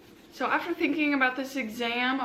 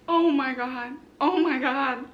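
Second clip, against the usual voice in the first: overjoyed; 4 dB louder, slower than usual. Real, not acted. Overjoyed after passing.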